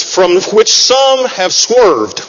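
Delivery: drawn out, weighty; slow scripture reading. Acted. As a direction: read it slow and solemn.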